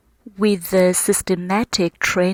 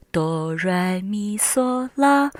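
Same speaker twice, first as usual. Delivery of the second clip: do, re, mi, so, la stepping upwards; climbing scale; slower than usual. Shown as a demonstration. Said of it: "from bass to treble, higher and higher".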